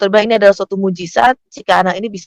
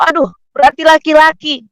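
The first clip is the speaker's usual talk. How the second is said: higher-pitched acted "oh no"; dismayed realization; 8 semitones higher, 4 dB louder than usual. Mother realizing the baby is a boy, high dismayed reaction. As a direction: let the sudden realization lift your voice. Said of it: "dia langsung berpikir".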